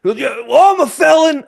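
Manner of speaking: hammed-up tough guy; mock proud felon. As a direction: play the stranger bragging, amused. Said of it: "He goes".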